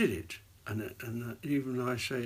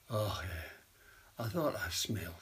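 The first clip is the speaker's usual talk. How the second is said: low Glaswegian deathbed voice; Glaswegian dying dad; 3 semitones lower, slower than usual. Acted. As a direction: play a dying Glasgow dad, slightly lower. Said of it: "Glaswegian, obviously".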